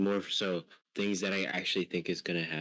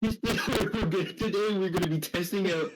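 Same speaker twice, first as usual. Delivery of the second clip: clickbait video narrator; 8 semitones higher, slower than usual. Retold or imitated. Mocking a YouTuber intro.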